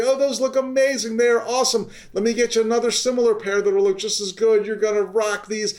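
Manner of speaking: high, gushing praise; eager clerk gushing over the fit; enthusiastic salesperson. Shown as a demonstration. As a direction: sell it like the best pair ever.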